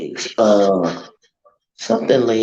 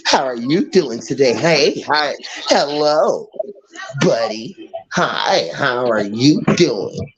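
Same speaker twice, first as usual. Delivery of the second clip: mock fake greeting; 2 semitones higher, slower than usual. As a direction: lay on the phony friendliness.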